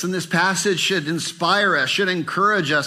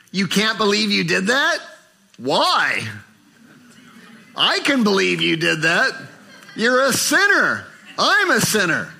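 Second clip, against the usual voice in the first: chiding retort; 4 semitones higher than usual. Retold or imitated. Answering the self-pitying believer.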